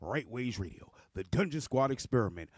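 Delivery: lightly voiced ringmaster announcement. Circus-style show introduction.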